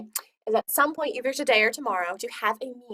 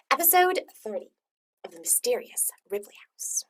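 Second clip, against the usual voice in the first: hushed title. Acted. Dramatic title announcement, second take.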